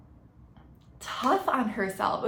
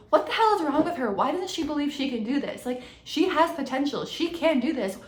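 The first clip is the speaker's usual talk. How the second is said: exasperated coach; 4 semitones higher than usual. Retold or imitated. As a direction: play the fed-up coach ranting about her. One of the coaches come in and goes.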